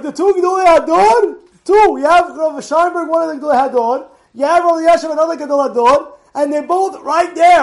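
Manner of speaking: high, loud, awed rush of words; amazed excitement. Retold or imitated. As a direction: gush about the two great rabbis. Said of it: "I was like".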